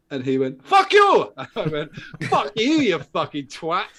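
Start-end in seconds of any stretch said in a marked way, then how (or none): 0.6-1.3 high, loud yell of abuse; angry retold shout. Taxi driver to the man who flagged him, angry shout. 2.2-3.9 drawn-out, higher insult through amusement; retold angry retort. Passenger swearing back at the taxi driver, drawn-out mock anger.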